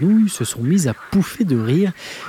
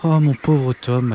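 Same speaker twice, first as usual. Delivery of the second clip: exaspéré; slower than usual. Acted. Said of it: "en levant les yeux au ciel".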